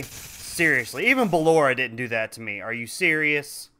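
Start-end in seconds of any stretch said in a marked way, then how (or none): 0.0-1.1 flat disbelief. Real, not acted.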